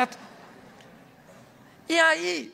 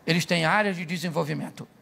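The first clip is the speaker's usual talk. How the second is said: gentle rewording; 4 semitones lower than usual. Shown as a demonstration. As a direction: say "áreas de desenvolvimento" gently instead of calling it a flaw. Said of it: "Olha como é que fica suave".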